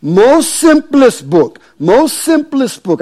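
put-on high-pitched, thick Indian accent; slow, high Indian-accented impression; M A Thomas, thick Indian accent. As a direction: imitate an Indian preacher's accent, pitched well up and emphatic. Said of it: "in his thick Indian accent".

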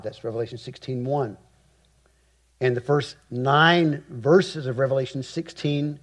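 ordinary talk

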